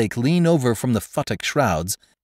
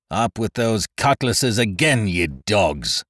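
shouted order. Acted. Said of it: "shouted Lowe".

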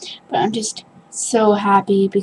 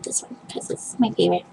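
whisper; 4 semitones lower, 12 dB quieter, much faster than usual. Real, not acted. Whispering over favorite.

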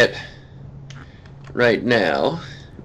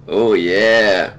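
sipping coffee; much slower than usual. Real, not acted. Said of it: "Let me sip my coffee".

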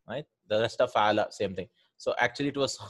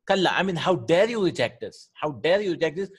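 indignant rebuke; 4 semitones higher, 4 dB louder than usual. Shown as a demonstration. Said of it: "teacher voicing the verse's rebuke".

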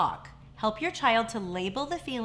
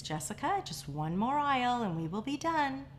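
calmly; 4 dB quieter than usual. Retold or imitated. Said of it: "She calmly repeats".

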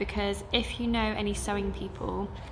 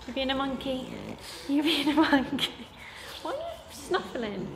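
raised, playful voice for a pet; teasing pet talk; 4 semitones higher than usual. Real, not acted. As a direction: fondly scold a pet being a monkey.

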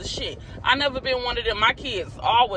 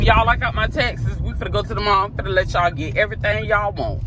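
fake good news; 3 semitones higher than usual. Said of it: "I'm finna tell them".

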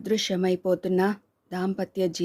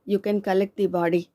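slow, flat-toned officialdom; much slower than usual. Acted. Officer's cold formal statement.

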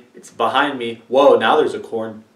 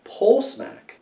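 higher, quick bright read; pitched up; 8 semitones higher, 4 dB quieter, slower than usual. Shown as a demonstration. Trying out the suggestion again, pitched up. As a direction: lift it up high and bounce it. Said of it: "Is that like smacking a pole?".

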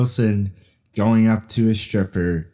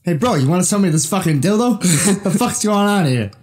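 Mark Wahlberg impression. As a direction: bark it like a hotheaded little bruiser. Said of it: "Mark Wahlberg".

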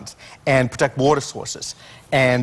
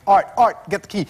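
retold yell; 6 semitones higher than usual. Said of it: "I'm yelling at the guy".

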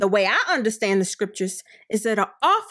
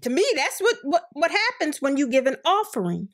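laughing; 3 semitones higher than usual. Real, not acted. Laughs through her point.

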